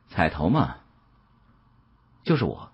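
soft, offhand and unbothered; cool and indifferent. A narrator's reading. Huang Yanyan naming herself as the stake, cool and soft. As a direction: say it lightly, as if it's nothing. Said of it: "淡淡地说道".

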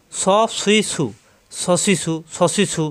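"স, সুই, সু" with air hissing out; whistling heavy s. Shown as a demonstration. Teacher showing students how, "সসি, সু" with a strong hiss. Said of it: "এরকম".

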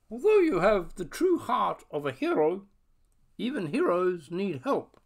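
high tiny creature voice; a small squeaky voice from the dark; squeaky bat voice. Acted. Bat voice continues.

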